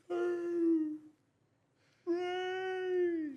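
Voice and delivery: slurred, stretched count, very high, as if heard underwater; underwater slow-motion count. Retold or imitated. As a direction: drag the referee's count out like sound through water. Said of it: "sounds like everyone's submerged under fucking water".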